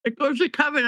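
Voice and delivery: talking while chewing; words round a mouthful of food; mouth full. Real, not acted. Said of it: "I'm chewing".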